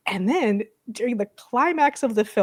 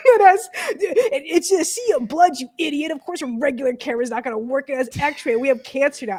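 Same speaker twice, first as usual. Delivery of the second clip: mock-angry retort, pitched up; mad; 5 semitones higher than usual. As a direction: imitate an exasperated scolding. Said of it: "she was just being mad".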